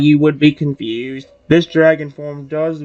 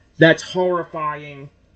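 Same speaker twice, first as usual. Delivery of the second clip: ordinary delivery, nothing marked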